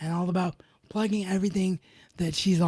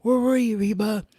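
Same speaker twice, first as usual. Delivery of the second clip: mock yell; 3 semitones higher, 3 dB louder than usual. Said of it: "yelling at Rebel".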